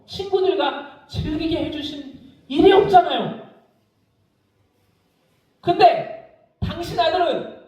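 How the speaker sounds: high, indignant complaint; bitter protest to the father; angry older son. Acted. Elder son protesting to his father, high and indignant. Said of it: "감정을 이입해, 이입해 말해요".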